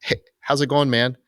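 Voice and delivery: high, casual hello; Dave's greeting. Retold or imitated. Recalling Dave's first hello at check-in, high and casual. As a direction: toss it off like a relaxed buddy. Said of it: "Dave was like".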